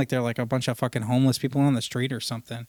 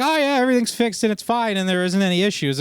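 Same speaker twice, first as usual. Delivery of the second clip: high, airy "all good" voice; breezy mock reassurance; 5 semitones higher than usual. Salesman mimics service techs, mock breezy all-clear. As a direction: toss it off like it's no big deal.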